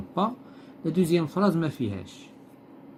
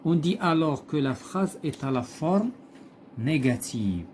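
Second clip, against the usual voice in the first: slow, deliberate read-aloud of the text; slow textbook reading; 2 semitones higher, much slower than usual. Acted. Teacher reading the textbook passage to pupils, slow and deliberate. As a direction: read each phrase slowly, like dictation to the class.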